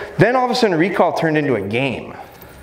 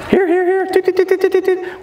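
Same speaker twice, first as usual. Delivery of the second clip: whistle calls. Shown as a demonstration. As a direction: toot like a whistle, very high. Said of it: "blow the whistle".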